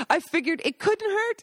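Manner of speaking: put-on high, sing-song old lady voice; lightly voiced Italian grandma; sweet old lady. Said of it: "Rosanna continued".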